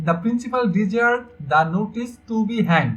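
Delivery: slow, word-by-word sentence reading; slow example reading. Shown as a demonstration. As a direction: read it out slowly for the class.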